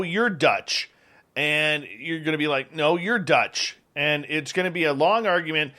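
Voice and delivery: upbeat, casual radio host sponsor plug; chatty, punchy endorsement read; live ad read. Acted. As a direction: pitch the product like a radio host.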